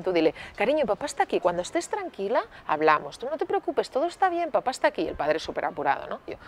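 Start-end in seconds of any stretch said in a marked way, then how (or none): 0.6-5.1 soothing parent. Shown as a demonstration. Models soothing words for father.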